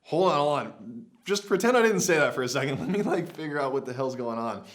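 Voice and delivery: fast, loud reassurance; hurried calm-down plea; urgent. Retold or imitated. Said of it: "I'm like".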